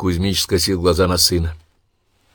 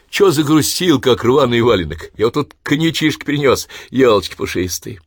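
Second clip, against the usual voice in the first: hearty cheering; 6 semitones higher, 5 dB louder than usual. Acted. Son cheering up father.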